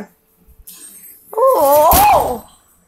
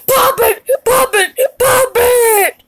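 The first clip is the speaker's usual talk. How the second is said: frantic shout; 6 semitones higher than usual. Acted. Frantic repeated cry.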